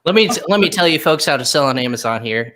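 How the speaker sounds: put-on lightly Southern old-timer voice; folksy old person giving advice. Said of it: "That's my old person voice".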